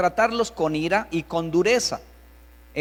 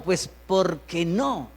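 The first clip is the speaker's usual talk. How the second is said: authoritarian parent; slower than usual. Acted. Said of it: "le añaden algunos padres".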